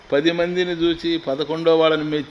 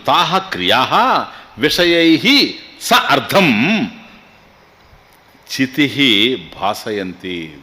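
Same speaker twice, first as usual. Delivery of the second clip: slow verse recitation; 2 semitones lower, much slower than usual. Acted. Chanting Sanskrit verse.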